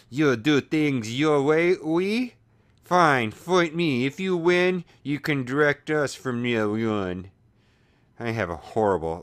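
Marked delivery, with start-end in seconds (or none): 0.1-7.3 put-on slow, hammy French accent with a lifted "oui"; bad French accent. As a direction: ham up a clumsy French accent. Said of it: "let's see if I can get a French accent".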